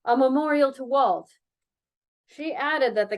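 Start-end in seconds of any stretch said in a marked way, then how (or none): 0.0-1.3 sudden spirit. Acted. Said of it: "with sudden spirit".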